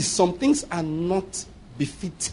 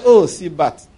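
calmly; 2 semitones lower, 3 dB louder, slower than usual. Retold or imitated. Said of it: "Very calmly".

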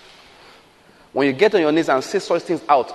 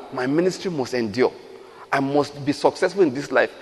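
emphatic prayer; 3 semitones higher than usual. Acted. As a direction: pray it as a rising personal declaration. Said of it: "These are serious prayers people need to pray".

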